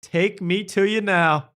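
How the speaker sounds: very slow, swooning ecstasy; hammed-up slow rapture; rapturous hugger. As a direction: melt into the hug like a revelation. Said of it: "anyone that hugs her goes".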